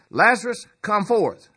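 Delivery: calls Lazarus out, high and loud; a commanding shout into the tomb. Retold or imitated. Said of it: "he said in a loud voice".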